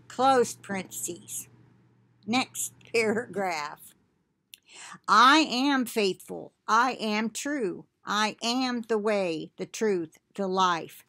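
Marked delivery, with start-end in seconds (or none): 5.1-11.0 measured, declaiming scripture voice; prophetic reading. Acted. Reading the prophecy to online brethren, solemn declaiming. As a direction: speak as the Lord addressing his flock.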